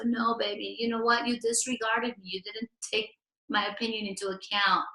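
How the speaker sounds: soft hurt complaint. Acted. Partner voiced in a demo.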